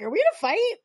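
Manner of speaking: a mock uncomfortable Dean asking; uneasy Dean quote. Dean, squeezed in a hug by Cupid, asks nervously.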